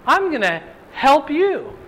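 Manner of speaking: a hint of God promising, slowly; God speaking. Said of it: "He says".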